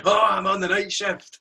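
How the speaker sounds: grumpy neighbour. Retold or imitated. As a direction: echo the whining neighbour. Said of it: "somebody pops up going".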